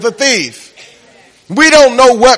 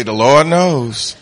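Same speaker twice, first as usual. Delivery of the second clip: put-on old folks' saying; 5 semitones lower, slower than usual. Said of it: "what the old folks say".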